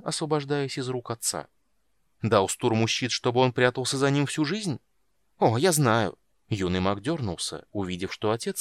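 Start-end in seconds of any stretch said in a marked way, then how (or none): 2.2-6.2 angry retort. Acted. Palin confronts his father.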